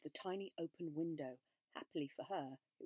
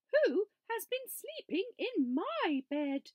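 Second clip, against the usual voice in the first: higher, louder mama bear growl; a high-pitched mock growl; mama bear's mock growl, pitched up; growling Mother Bear; 14 semitones higher, 9 dB louder, slower than usual. A narrator's reading. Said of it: "she growled".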